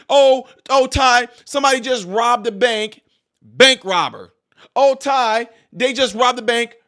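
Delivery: hammed-up alarm about a robbery; mock alarmed bystander. Bystander calling to Ty about a robbery, mock panic.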